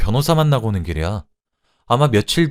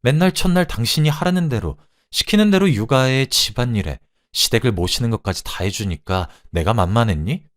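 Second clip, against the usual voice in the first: raised-voice tirade of a betrayed wife; angry shouting; 4 semitones higher, 4 dB louder than usual. Acted. Wife confronts husband over his affair, angry outburst. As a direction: let hurt indignation push the pitch up. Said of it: "라고 소리쳤습니다".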